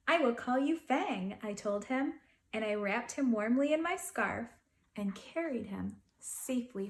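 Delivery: put-on gentle read-aloud to children; storybook narration voice; story narration. A narrator's reading. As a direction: tell it like a bedtime picture book. Reading a picture book aloud.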